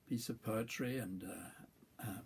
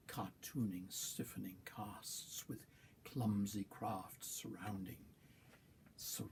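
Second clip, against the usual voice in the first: measured poetry reading with weighted stresses; poem recital. Acted. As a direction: recite it line by line, pausing between phrases. Reads own poem aloud.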